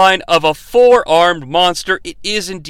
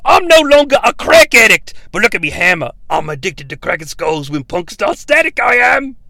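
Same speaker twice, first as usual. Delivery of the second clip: brash wrestler; 4 semitones higher than usual. Retold or imitated. Wrestler thanking Shang Tsung for rehiring him, hammed-up shouting. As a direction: shout it like a pumped-up wrestling promo.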